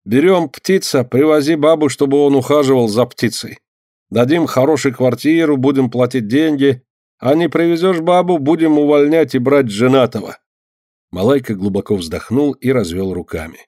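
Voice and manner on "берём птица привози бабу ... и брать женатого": quoting the boss. Acted. Malaika quotes his employer.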